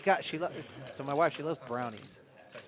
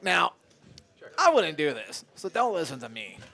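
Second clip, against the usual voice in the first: loud, hushed-advice commentator; golf announcer voice; 4 semitones higher, 8 dB louder than usual. Retold or imitated. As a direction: play it like a TV sports announcer. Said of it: "the commentator is like".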